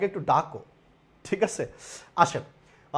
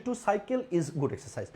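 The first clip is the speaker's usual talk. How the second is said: slow reading of option; 3 semitones lower, 10 dB quieter, much slower than usual. Shown as a demonstration. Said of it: "আর একটা বলছে".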